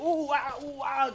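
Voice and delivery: high, silly ooh-ah hooting; mock monkey hoots. Friend showing the trick to the debtor, mock monkey hoots. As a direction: hoot like a monkey to seem crazy. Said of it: "So you pretend to be crazy".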